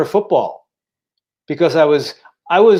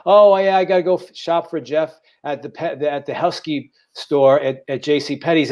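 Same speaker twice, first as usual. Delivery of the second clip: mocking mother. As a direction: lightly mimic mum joking about his size. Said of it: "And my mother would laugh. I'd hear her".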